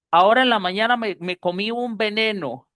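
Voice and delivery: half-fluent gringo mispronouncing banano as VENENO; gringo accent in Spanish. Acted. Gringo telling someone on the street, gringo accent. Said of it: "un gringo que, que medio habla español".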